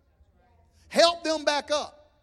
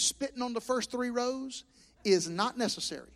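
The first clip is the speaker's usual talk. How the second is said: reading the critical note; 4 semitones lower, 5 dB quieter than usual. Retold or imitated. Pastor reading a stranger's note telling him to calm down, lower and disapproving. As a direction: read the complaint in a primly disapproving voice. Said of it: "and the note said".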